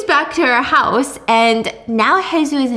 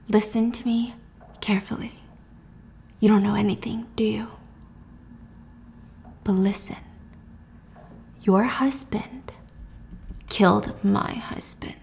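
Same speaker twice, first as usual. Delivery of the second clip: menacing whisper; 8 dB quieter than usual. Retold or imitated. Sora threatening Jules in whisper.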